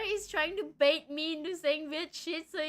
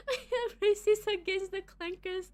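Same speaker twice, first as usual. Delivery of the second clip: a hint of British, slipping off; attempted British accent; 3 semitones higher, 4 dB louder than usual. Streamer trying British on chat, slipping accent. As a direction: reach for British and miss. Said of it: "That's not British".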